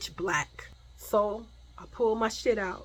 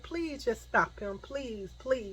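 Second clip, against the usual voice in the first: pleading; 3 semitones higher, 7 dB quieter, slower than usual. Retold or imitated. Begging his mother for help.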